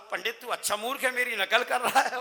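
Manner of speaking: cheeky loud imitation; cowherd copying. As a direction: throw the insult straight back, laughing. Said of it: "तो ग्वाला बोला".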